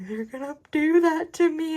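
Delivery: put-on high, loud, worried child voice; nervous child. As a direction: sound like a scared little girl. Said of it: "she was like".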